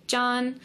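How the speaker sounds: John held level as if calling him. Shown as a demonstration. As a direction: call John across the room. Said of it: "like you're calling to him".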